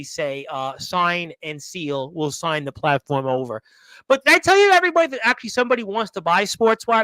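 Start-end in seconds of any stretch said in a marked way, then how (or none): 4.1-7.0 high and loud, burst out with the news; excited announcement. Real, not acted. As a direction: announce it like big news, rushing the second half. Teasing a big announcement.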